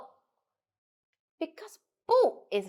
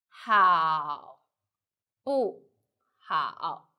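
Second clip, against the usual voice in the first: 好, 不, 好 slowly, each syllable apart; word by word; 5 semitones lower, much slower than usual. Shown as a demonstration. Teacher breaks down the example, 好 不 好 syllable by syllable. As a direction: pause between 好, 不 and 好. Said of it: "So let's put light and short".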